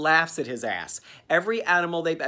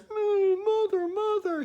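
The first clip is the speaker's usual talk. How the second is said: very high, whimpering cry; hammed-up sob for mother; mock weeping; slower than usual. Orphaned Nestor crying for his mother, a hammed-up high whimper. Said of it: "big tears".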